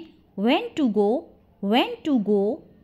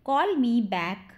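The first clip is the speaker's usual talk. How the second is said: slowed-down teaching phrase; slow it for learners to repeat; slow model repeat; slower than usual. Shown as a demonstration. Teacher repeats the phrase for learners, slowly.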